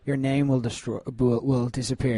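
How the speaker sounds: a soft, deadly calm promise; calm cold threat. Retold or imitated. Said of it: "just calmly be like".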